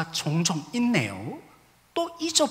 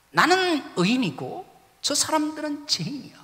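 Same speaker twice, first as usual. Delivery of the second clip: smug, raised voice, looking down on sinners; self-righteous quote; 10 semitones higher, 4 dB louder than usual. Retold or imitated. Pastor mocks his own proud religious-leader self, smugly. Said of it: "제가 종교 지도자와 똑같아져 있더라고요".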